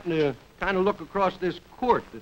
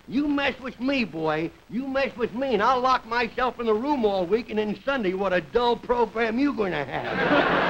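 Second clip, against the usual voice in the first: put-on little boy; 3 semitones higher than usual. Small boy threatens his performer dad over Sunday's show, mock-threatening kid. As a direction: play a kid lightly threatening, stretching key words. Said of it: "the other day he said to me".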